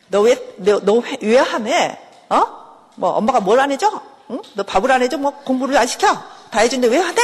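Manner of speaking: exasperated mock-mother interrogation; bad mother scolding. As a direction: play a mother badgering her child with questions. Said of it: "마치 나쁜 엄마처럼".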